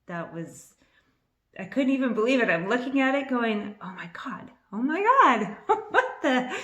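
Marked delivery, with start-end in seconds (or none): 3.8-6.5 stunned excited whisper. Retold or imitated. Staring at the match in disbelief.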